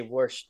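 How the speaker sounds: "worsh" with an r before the sh; Baltimore "worsh". Shown as a demonstration. Showing friends' teasing target, Baltimore "worsh" with added r. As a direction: put an r into wash: "worsh". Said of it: "the way I say".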